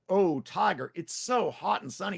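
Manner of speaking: Tricky the rider. Acted. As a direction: play the small nervous rider.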